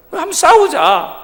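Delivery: hammed-up schoolboy daring a fight; bully's challenge. Classmate loudly accepts the fight in a put-on voice.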